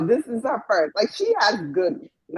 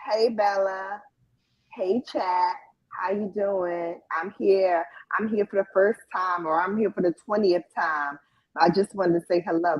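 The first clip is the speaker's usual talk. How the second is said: imitating polite viewer; 3 semitones lower than usual. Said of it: "When you type in".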